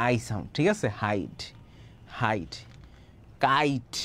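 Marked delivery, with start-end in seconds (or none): 1.0-2.5 হাইড said softly and slowly, the long ai glide drawn out; soft sound demo. Shown as a demonstration. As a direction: softly model হাইড for the class, ai stretched. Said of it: "আই sound, ই ওয়াই".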